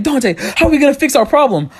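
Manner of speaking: high-pitched mock panic; freaking out. Sister panicking over the broken TV, freaked out. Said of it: "My sister's freaking out".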